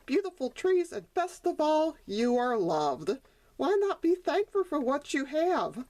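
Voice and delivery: high, tender mother donkey voice; comforting mother. Acted. Mother shows Sonny his blessings, tender. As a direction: soothe him and lift him up.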